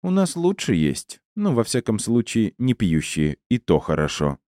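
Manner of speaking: musing aloud, starting high and settling; talking to herself. Acted. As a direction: think it over aloud, as if alone. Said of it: "продолжила говорить как бы сама с собой".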